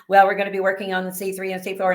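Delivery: rattled-off, level monotone; robotic monotone. Retold or imitated. Anesthesiologist briefing a patient on the procedure, robotic monotone. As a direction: imitate a detached, almost robotic recital. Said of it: "in a very monotone".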